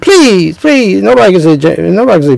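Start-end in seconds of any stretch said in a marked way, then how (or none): 0.0-1.0 higher, pleading Please in a soul-singer wail; a soul singer's please. Retold or imitated. Preacher imitates a soul singer pleading, higher. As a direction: beg it like a soul singer on stage. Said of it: "like a soul singer".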